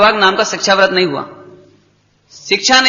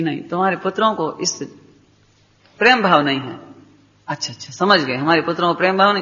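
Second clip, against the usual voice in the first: hushed voices; 4 semitones lower, 6 dB quieter than usual. Retold or imitated. Mother and merchant speak.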